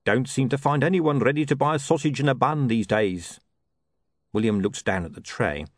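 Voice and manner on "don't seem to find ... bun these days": higher-pitched trader sunk in gloom; gloomy sausage seller. Acted. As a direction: moan about business as a street hawker.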